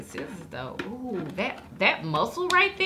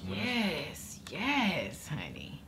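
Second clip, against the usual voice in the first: whisper; 5 semitones lower, 12 dB quieter, much slower than usual. Real, not acted. Whispered savoring.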